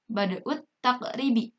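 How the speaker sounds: "bada'ut taqribi" joined by a doubled T; silent lam. Shown as a demonstration. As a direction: read "bada'ut taqribi" with no L before the T. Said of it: "ini juga alif lamnya tidak dibaca".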